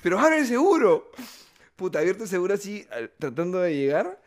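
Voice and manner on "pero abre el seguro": loud demand. Retold or imitated. Father demanding door unlocked.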